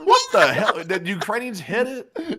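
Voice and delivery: high, loud, cracking up while talking; laughing disbelief. Real, not acted. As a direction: shout it through helpless laughter. Both crack up at drone blowing up.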